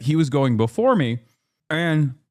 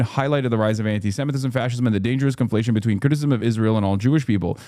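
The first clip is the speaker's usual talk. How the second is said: quick read-out quote; 3 semitones lower, faster than usual. Retold or imitated. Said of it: "quote, retweeted".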